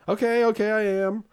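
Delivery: put-on high-pitched put-upon kid voice; mock kid's impatient okay; whining kid reply. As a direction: imitate a child protesting at being told. Daughter's reply, acted by parent.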